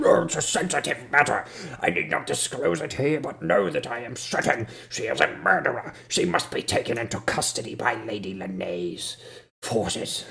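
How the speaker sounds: pompous guard. Acted. Guard refuses to disclose his proof, pompous. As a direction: declaim it with haughty certainty.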